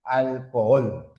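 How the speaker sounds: "Alcohol" slowly, the last syllable stressed and held; stress on final syllable. Shown as a demonstration. Teacher showing the tonic syllable, slow "Alcohol" stressed on the end. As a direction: stretch "Alcohol" out onto its final "hol". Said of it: "sílaba átona y sílaba tónica".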